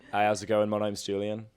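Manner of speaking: a light attempt at an Australian accent; Australian accent, only lightly done; mild Australian accent. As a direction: try an Australian accent, half-hearted. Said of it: "That was Australian".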